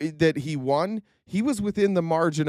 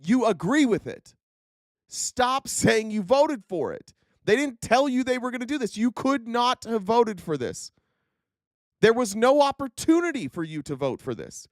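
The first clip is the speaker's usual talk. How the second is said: fed-up rant; 6 semitones higher than usual. Real, not acted. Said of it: "I'm so goddamn tired".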